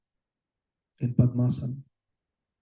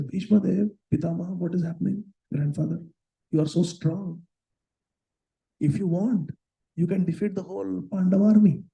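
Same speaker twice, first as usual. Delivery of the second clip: higher, urgent pleading to the grandfather; a frustrated prince begging for more; voiced Duryodhana; 6 semitones higher than usual. Frustrated Duryodhana pleading with grandfather Bhishma, raised voice.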